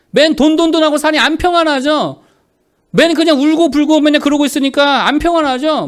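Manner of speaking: high, loud rebuking sermon voice; forceful preaching. Real, not acted. Pastor rebuking idle believers, forceful preaching. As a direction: hammer each reproach from the pulpit.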